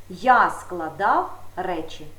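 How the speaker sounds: slow, deliberate Я складав речі; slow example. Shown as a demonstration. Teacher giving pupils an example sentence, slow and deliberate. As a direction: spell out the example sentence slowly. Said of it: "минулий час до моменту мовлення".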